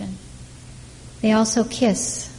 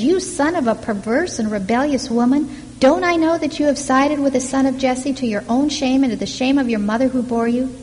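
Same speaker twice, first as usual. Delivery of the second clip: Saul rebuking his son, raised and hot; a preacher voicing a furious king; angry rebuke; 4 semitones higher, 3 dB louder than usual. Saul berating Jonathan at the table, angry. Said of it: "Saul's anger flares up at Jonathan".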